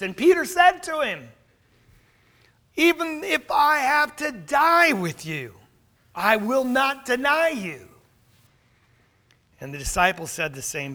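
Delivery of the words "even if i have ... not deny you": Peter's insistent vow. Retold or imitated. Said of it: "you have to hear what he's saying".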